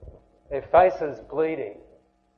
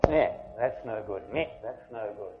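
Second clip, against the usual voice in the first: lower, dismissive mock grumble; a lightly voiced sour complainer going meh; grumbler; 5 semitones lower, 4 dB quieter than usual. Preacher mimics a complainer finding fault, lightly dismissive.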